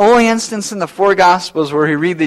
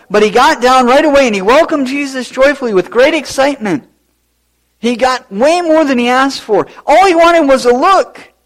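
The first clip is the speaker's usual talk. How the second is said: high, loud climax; excited preaching; 8 semitones higher, 5 dB louder than usual. Real, not acted. Preacher to congregation on Zacchaeus, rising excited fervor. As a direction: drive the point home with fire.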